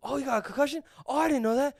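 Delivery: high, oblivious dad voice; imitating an unbothered, chatty dad; rambling dad. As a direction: prattle on without any concern. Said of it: "he just kept going on".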